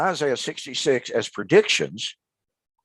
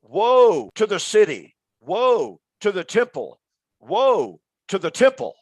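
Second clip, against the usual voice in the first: retold screaming; 2 semitones higher than usual. Host voicing the doomed prophet of Jerusalem, mock wailing. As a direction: cry out the prophet's warning to the city. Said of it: "literally screaming".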